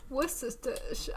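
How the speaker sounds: Worcestershire slowly tangled into "wississtish"; fumbled pronunciation. Real, not acted. Streamer failing to get it out, Worcestershire fumbled as "wississtish". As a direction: trip over Worcestershire, "wississtish". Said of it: "It comes out all fumbled".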